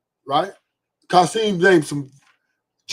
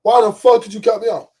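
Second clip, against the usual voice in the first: mock road rage yell; 5 semitones higher than usual. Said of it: "You're yelling at the fucking driver".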